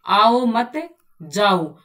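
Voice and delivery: "आओ मत", break, then "जाओ"; pause for comma. Shown as a demonstration. Teacher demonstrating the other comma placement. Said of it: "विराम चिन्ह का भी भाषा में".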